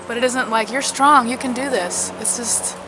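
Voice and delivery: mildly irritated, pushing back; a touch of real exasperation; sort of mad. Real, not acted. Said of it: "I sound like I'm sort of mad about that".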